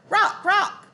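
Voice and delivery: high calling out. A narrator's reading. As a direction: call up to a bird above. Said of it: "She called up to the bird".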